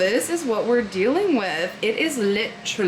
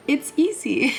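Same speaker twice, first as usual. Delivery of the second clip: cartoon guy voice; 6 semitones higher than usual. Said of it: "a little guy that's like".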